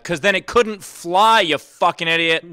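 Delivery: a hammed-up rant at old comics; mock scolding. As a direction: scold them like idiots.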